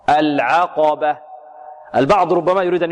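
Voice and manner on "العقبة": "العقبة" very slow, thin ayn then full qaf; light ayn, heavy qaf. Shown as a demonstration. Teacher models the word, slow "العقبة" with light ayn. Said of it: "والعين مرققة".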